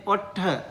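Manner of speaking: ottha said as OHT-tha with a hard retroflex t; teacher models ottha slowly; Pali word. Shown as a demonstration. Teacher showing students the Pali word, careful pronunciation. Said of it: "Ottha means lips".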